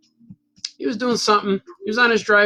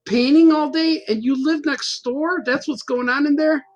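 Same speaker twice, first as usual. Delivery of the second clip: higher-pitched mock astonishment; retold amazement; 5 semitones higher than usual. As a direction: imitate an incredulous neighbor, pitched higher. Neighbour piles up his amazed questions.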